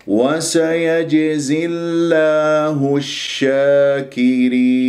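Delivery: slow chanted tajweed reading; Quran recitation. Shown as a demonstration. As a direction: intone it slowly like a Quran reciter.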